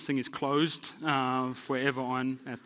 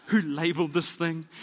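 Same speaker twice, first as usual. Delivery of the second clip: exasperated outburst; 3 semitones higher, 7 dB louder than usual. Retold or imitated. Pastor at the stairwell, loud exasperated outburst. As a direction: throw up your hands at a ridiculous building. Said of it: "And I'm like".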